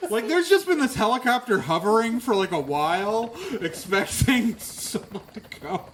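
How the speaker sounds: loud, high-pitched joking riff; animated riffing. Real, not acted. Joking GM riffs loudly at players.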